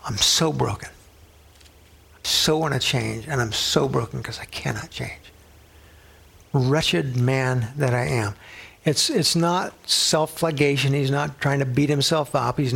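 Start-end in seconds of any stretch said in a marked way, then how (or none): 0.0-8.4 a hushed, slow, broken plea, half whispered; understated anguished confession; broken cry. Acted. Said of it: "it's with tears that you're yelling out".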